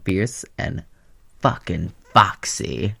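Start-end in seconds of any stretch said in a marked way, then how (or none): 1.4-2.9 sassy drawl. Acted. Drawn-out sassy ending.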